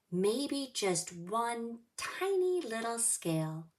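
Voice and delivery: expressive storybook reading; reading to children. Acted. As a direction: read it like storytime for little kids.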